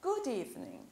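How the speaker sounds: "Good evening" joined as goo-deevening; linked D and E. Shown as a demonstration. Teacher repeats the linked greeting to students, D joined to E in "Good evening". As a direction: pull the d of "Good" onto the start of "evening". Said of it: "Eu puxei o D e o E todo junto".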